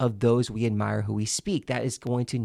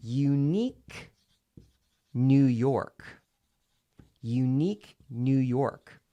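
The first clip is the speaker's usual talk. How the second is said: slow and evenly spaced; introducing it slowly; slower than usual. Shown as a demonstration. Coach introducing the final tongue twister, slow and deliberate. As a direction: present each word separately. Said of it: "we do this one".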